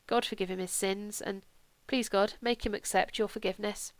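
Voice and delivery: understated, simple prayer. A narrator's reading. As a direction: pray quietly and plainly. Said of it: "I prayed more simply".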